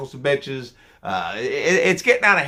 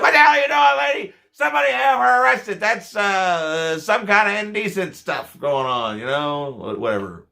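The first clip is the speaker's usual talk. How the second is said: in-character outrage; 6 semitones higher than usual. Acted. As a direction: play the shocked bus driver, then trail away. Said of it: "I'm like".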